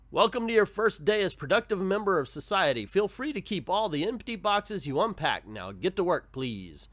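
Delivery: a hint of a bossy store manager; lightly voiced shopkeeper. Shopkeeper putting a new worker to work, lightly voiced boss.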